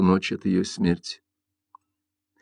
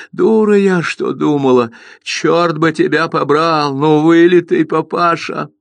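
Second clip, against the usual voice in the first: high, slow, furious outburst; 6 semitones higher than usual. Acted. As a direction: rage at her son. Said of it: "расцвела её ярость".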